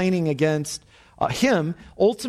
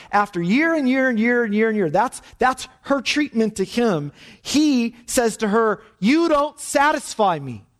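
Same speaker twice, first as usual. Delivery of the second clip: rising indignation; 5 semitones higher than usual. Retold or imitated. Husband's cruel words retold.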